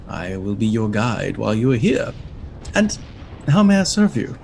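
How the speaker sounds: flustered imp professor. Acted. Imp professor introducing himself to travellers, flustered and fussy. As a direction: trip over the words like a nervous bureaucrat. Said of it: "this devilish imp holding a book".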